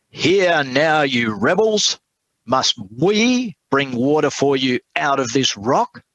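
reading Moses's words with mild anger; angry Moses. Retold or imitated. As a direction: scold the rebels as a fed-up Moses. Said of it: "Moses is angry with the people".

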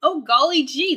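a hint of a gee-whiz kid; chirpy old-timey golly gee; wholesome 1950s kid. Hammy wholesome exclamation.

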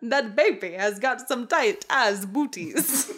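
slow, badly faked Italian accent; clumsy, halting cartoon Italian accent; Mario. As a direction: attempt an Italian accent that slips toward vampire. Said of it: "trying to go for sounding like Mario".

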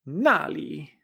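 "Nali" falling first, dipping on the second syllable; fall, then curved tone. Shown as a demonstration. Teacher repeating there, "Nali" falling then curved. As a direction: drop "Na" and curve "li". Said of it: "utiliza esta misma entonación".

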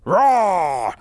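slow, booming troll voice. Acted. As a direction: boom it like a pompous troll. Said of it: "dial in a troll voice here?".

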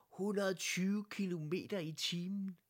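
high-pitched incredulous echo; astonished. A narrator's reading. Blomst hearing the downhill speed, astonished. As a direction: squeal it back in disbelief. Blomst reacts, eyes popping.

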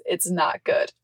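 retold deadpan verdict, slightly subdued; understated, matter-of-fact quote. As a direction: repeat it dead serious, imitating her. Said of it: "Dead ass, like, just".

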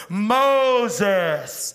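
loud, high, drawn-out shout of the name; intense call. Shown as a demonstration. God calling Moses with intensity, loud high shout. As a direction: cry out Moses with urgency.

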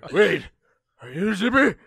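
high, loud puzzled creature voice; suddenly doubtful, squeaky questioning; excitable Longface. Acted. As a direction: peer suspiciously in a silly high voice.

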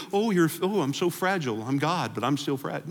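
high, hammed-up fragile whine; mock a delicate, hurt God. Pastor mocks the idea of a fragile God, high whiny voice.

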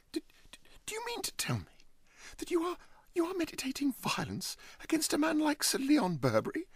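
high, breathless stammer. Acted. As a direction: trip over the words in alarm. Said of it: "stammered Huddle".

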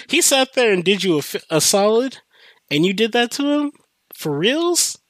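high-pitched mock outrage; mad friend, imitated. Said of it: "got so mad".

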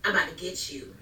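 understated low-key parental warning; mildly mock a no-nonsense threat; serious warning voice. Shown as a demonstration. Mother showing the voice her daughter obeys, serious. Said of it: "Now I'm serious voice".

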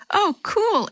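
high excited exclamation. A narrator's reading. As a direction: burst out thrilled. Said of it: "exclaimed Chris".

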